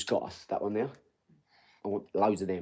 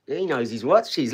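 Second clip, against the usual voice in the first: impressed; 3 semitones higher, 5 dB louder, slower than usual. Real, not acted. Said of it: "My, my guy knows his watches".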